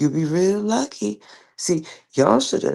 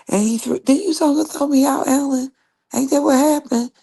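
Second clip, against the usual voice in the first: heated accusation; 9 semitones higher, 3 dB louder than usual. Real, not acted. Confronting Ellen about being thrown out.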